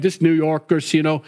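lightly attempted New York accent; a hint of mock New Yorker; terrible New York accent. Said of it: "that was a terrible accent".

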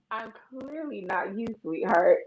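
pat her on the head with it; condescending. Retold or imitated. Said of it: "they be like".

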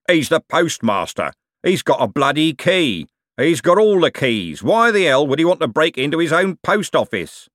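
high, loud incredulous coachman; exasperated argument. A narrator's reading. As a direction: hammer each point home to a fool. Coachman argues with hostler.

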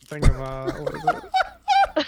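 crunching while talking; eating cheese snack. Real, not acted. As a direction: talk through a crunchy mouthful. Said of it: "That is really loud with a crunchy crunch".

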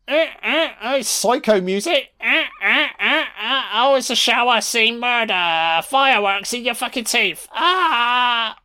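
high, squealing real glee; excited yelps. Real, not acted. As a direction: squeal along at the screen in delight. Gleeful reaction to fireworks attack.

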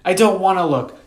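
put-on high, loud childish protest; stubborn refusal. A narrator's reading. Sister refusing to look at brother's map, stubborn.

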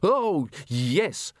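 breezy, unbothered curator; dismissive. Acted. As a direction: brush it off, skulls are nothing. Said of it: "in the voice of one who regards skulls as ten a penny".

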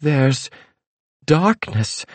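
high, slow ominous trance voice; fortune teller. A narrator's reading. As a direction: chant the vision with dread. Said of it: "fortune teller in trance".

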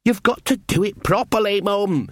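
high, whining, already defeated; wretched. Acted. Son pleads with his mum, high and wretched. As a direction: plead knowing you've lost. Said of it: "in the wretched tones of one who knows he's going to lose".

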